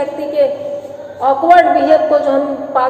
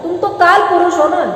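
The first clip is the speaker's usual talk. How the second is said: higher, emphatic mock deference; bitter sarcastic taunt; 4 semitones higher than usual. Wife mocks husband as master and king, bitterly sarcastic. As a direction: needle him with his own superiority.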